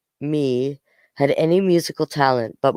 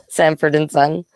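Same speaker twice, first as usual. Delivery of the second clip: laughing self-correction. Real, not acted. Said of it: "Samson and Son".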